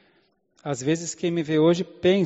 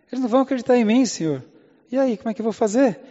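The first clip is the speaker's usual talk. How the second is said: worried Moses; 6 semitones higher, faster than usual. Acted. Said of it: "parece a gente falando".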